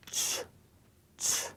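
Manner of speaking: "ch" with a strong, aspirated burst; a strong breathy "ch"; strong Korean ch. Shown as a demonstration. Teacher demonstrates the strong ch sound to students. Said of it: "strong C H sound".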